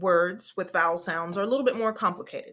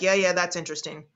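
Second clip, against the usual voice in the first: mock bored; faster than usual. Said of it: "You're like".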